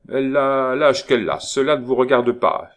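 loud, high, offended comeback; indignant retort. Acted. Young lover stung by neighbour's question, indignant retort. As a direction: shut the question down forcefully.

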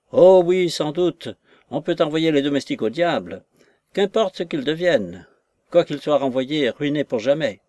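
mildly acted indignant sarcasm; bitter irony. Offended maid answering her mistress's lover, mildly sarcastic. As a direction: burst in on "oh oui", then grumble in offence.

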